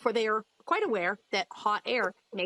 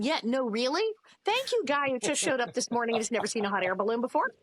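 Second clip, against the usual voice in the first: ordinary talk, nothing marked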